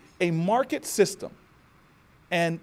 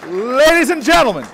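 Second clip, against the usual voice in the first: loud, higher-pitched call to the crowd; booming address; 8 semitones higher, 14 dB louder than usual. Real, not acted. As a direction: boom it out over the audience's laughter. Orator resumes after the joke.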